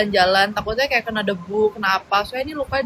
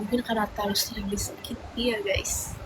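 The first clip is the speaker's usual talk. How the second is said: mock self-pity; 11 dB quieter than usual. Joking self-pity to viewers.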